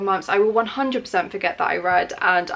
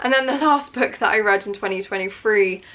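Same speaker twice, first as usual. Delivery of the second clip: breathless, panting between words; out of breath. Real, not acted. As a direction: speak winded and short of air. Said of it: "I'm so out of breath".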